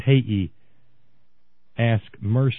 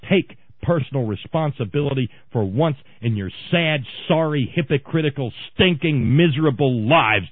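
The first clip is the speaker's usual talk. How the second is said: growing anger; 2 semitones higher than usual. Real, not acted. Ranting at Republicans.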